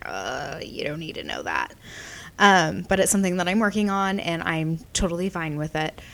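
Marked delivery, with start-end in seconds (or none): 0.1-1.7 1 mock dismissive. Quoted brush-off of personal questions.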